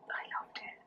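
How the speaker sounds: breathy near-silent whisper of I loved it. Real, not acted. Recalling Jackanory, she whispers to herself. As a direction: let it slip out as a hush. Fond childhood memory, said twice.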